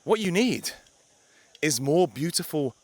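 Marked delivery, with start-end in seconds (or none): none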